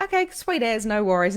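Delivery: high, airy, put-on casual; breezy acceptance. Storyteller answering a busy friend on the phone, high breezy acceptance. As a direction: let her off lightly, pitched right up.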